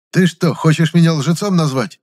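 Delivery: high, loud flare-up; boiling over. A narrator's reading. Valentin flaring up at the accuser. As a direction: flare up at once. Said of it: "моментально вскипел Валентин".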